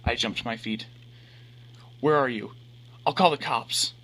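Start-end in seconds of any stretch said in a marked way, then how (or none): 2.0-3.9 panicked shout. A narrator's reading.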